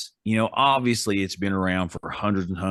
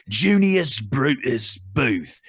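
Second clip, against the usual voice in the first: slow, higher-pitched mock Australian; put-on Australian accent; 4 semitones higher, slower than usual. Co-host presents the ghost, mock Australian accent. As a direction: savour the name in a hammed-up Australian accent. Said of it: "go with an Australian accent".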